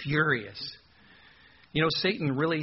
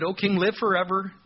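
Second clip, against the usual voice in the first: mock flattery; 4 semitones higher, 4 dB louder than usual. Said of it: "they're gonna flatter him".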